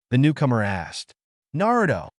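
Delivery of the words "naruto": high, glad cry of a name; happy exclamation. A narrator's reading. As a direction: call out with relief. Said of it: "Lucy exclaimed happily".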